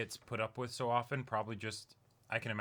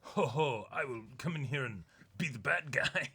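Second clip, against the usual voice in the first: mock villain. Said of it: "They're not just like".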